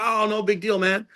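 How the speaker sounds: high-pitched easygoing brush-off; mimicking a carefree reply; imitated breezy reassurance. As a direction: wave it off in a high, playful voice. Retelling star's breezy reply.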